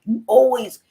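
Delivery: high, loud mock complaint; imitating mad son. Son mad at his mother, imitated high, loud protest. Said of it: "He was so mad at me".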